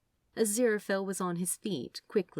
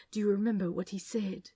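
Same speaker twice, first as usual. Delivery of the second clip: softened; 3 semitones higher, 3 dB quieter, faster than usual. Acted. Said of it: "then softened".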